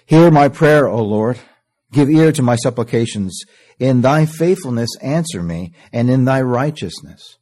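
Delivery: proclaimed prayer. Acted. Preacher proclaiming David's prayer to the congregation, ringing out. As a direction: call the prayer out to the Lord.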